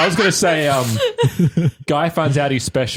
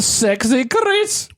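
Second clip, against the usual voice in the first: slow, high, drawn-out name; hammed-up slow announcer purr; slow sultry intro; 7 semitones higher, much slower than usual. Host introduction flourish.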